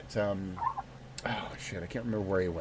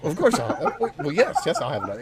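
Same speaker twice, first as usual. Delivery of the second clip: laughing; 3 semitones higher than usual. Retold or imitated. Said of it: "he's like".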